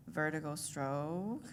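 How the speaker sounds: slow, deliberate stroke-by-stroke dictation; mock-careful dad spelling in strokes. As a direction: spell the curse out slowly, one stroke at a time. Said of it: "only writes in Chinese".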